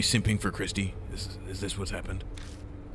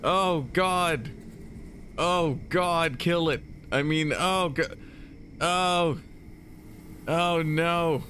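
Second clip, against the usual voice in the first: high squeaky character voice; 10 semitones higher, slower than usual. Acted. Squealing character voice in game dialogue.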